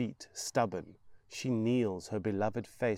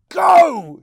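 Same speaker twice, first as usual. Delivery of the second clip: high, loud mad scream; 21 dB louder than usual. Acted. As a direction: scream at the boy with all you have. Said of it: "she screams at him".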